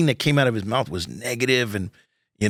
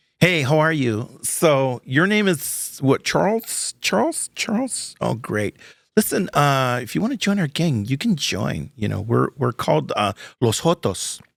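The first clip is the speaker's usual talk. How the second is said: tough, hardcore street-style voice; 3 semitones higher than usual. Retelling meeting a feared neighborhood figure as a kid: imitating Bumper. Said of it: "And he goes".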